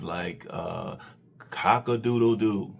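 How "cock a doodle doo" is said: imitating a rooster crowing. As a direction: crow it like a farm rooster. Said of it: "He's making that rooster sound".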